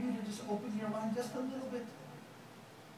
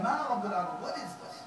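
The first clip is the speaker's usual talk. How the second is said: dismissive scoff. Shown as a demonstration. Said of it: "He said".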